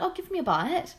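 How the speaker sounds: put-on drunken mate. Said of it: "In my drunken".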